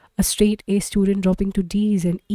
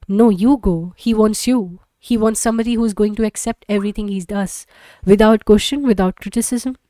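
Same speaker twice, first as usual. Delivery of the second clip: bitter; 2 semitones higher, 4 dB louder than usual. Acted. Wife refuses, bitter.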